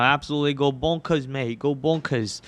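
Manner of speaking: a light, playful hint of an Aussie accent on go bonkers, mate. Trader hyping a stock to the stream in a light mock Aussie accent. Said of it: "Why aren't you using that U K accent more, or was that Aussie?".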